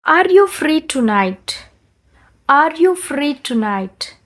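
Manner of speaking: very slow, each word drawn out; slow shadowing model. Shown as a demonstration. Teacher repeats the question slowly to shadow. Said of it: "high and low-గా చెప్తాను".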